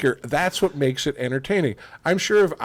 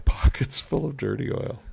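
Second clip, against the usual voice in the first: Scottish accent attempt; 3 semitones higher than usual. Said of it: "that was not too bad".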